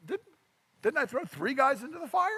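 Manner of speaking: astonished king. Acted. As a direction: sound like a king who can't believe his eyes. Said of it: "he starts saying".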